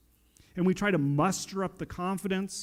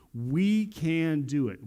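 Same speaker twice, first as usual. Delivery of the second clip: slow summary; slower than usual. Retold or imitated. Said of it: "the whole idea of what he was saying".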